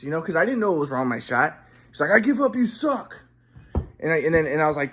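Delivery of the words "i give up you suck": higher, mock-exasperated put-down; fed-up dad. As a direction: imitate a father quitting in disgust. Retold dad quitting and insulting him.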